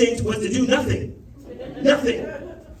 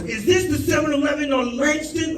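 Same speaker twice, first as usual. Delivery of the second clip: annoyed dispatcher; 4 semitones higher, 3 dB louder than usual. Retold or imitated. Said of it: "Like, he was annoyed".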